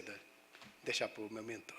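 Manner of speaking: soft, low whisper to himself; whispered aside. Retold or imitated. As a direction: breathe it out as a private thought. Private thought, leaving it to mentor.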